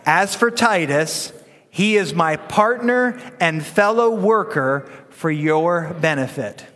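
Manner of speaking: put-on slow, deliberate read-aloud with the kids; measured congregational recitation; slow group reading. Shown as a demonstration. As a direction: lead the room reading scripture together, slowly. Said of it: "Can we read it together?".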